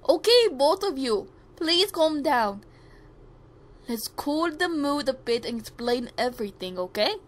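lightly attempted Indian accent. India asking both quarrellers to calm down, attempted Indian accent. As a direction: try your best amateur Indian accent. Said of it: "that's my best Indian accent".

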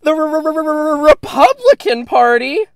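slow, high trilled R-R-R-R-R-Republican; rolled R. Acted. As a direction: roll the R in R-R-R-R-R-Republican dramatically. Mock dramatic rolled R.

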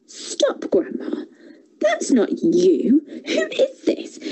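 put-on frightened hushed little girl; breathless scared whisper. A narrator's reading.

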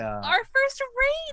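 excited. Real, not acted. Excited about first raid.

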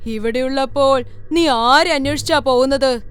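mildly menacing spirit; taunting ghost. Acted. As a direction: lean on the words to lure her in.

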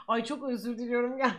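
speaking through a burp; words caught on a burp; talking while burping. Real, not acted. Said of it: "Geğirdim".

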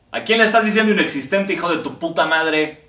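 a puppet snapping back at its owner; offended puppet. Acted. Puppet voice insulting the comedian, indignant.

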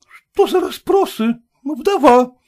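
high, loud rebuttal; indignant retort. Acted. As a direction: stand your ground firmly. Hostess irritated.

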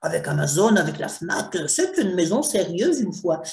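imitating an impressed newbie writer; mildly mocking authors who believe the logos; naive author. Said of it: "tous les auteurs se disent".

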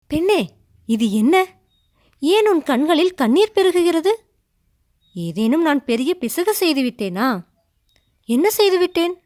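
flustered prince asking in a rush; agitated. A narrator's reading. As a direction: press her urgently, worried. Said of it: "பரபரப்பா கேட்டான்".

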